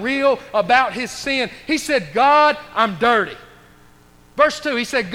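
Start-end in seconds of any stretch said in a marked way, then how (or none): 2.1-3.4 slow, louder heavy confession. Acted. David confessing his sin to God, slow and heavy. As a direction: lay the shame bare before God.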